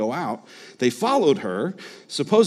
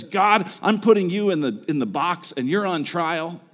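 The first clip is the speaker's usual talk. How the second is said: accusing god; 4 semitones higher than usual. Shown as a demonstration. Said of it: "in a way that says".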